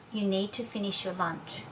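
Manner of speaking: firm but unruffled, no reaction; calm, even voice. Shown as a demonstration. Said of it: "a very calm, even voice".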